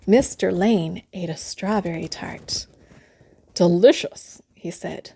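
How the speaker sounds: hushed, secretive narration; a whispered aside to the listening child. A narrator's reading.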